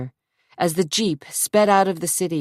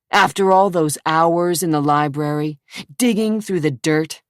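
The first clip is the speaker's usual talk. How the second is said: mocking; 4 dB louder than usual. Zach mocks her research.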